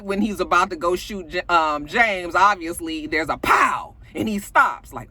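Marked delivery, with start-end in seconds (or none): 3.4-4.0 imitated gunshot bang.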